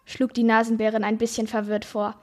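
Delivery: reads the fantasy passage aloud, lightly voicing the animals; story narration. A narrator's reading. Host reading a book passage to her co-hosts, lively narration. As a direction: tell the tale to podcast listeners.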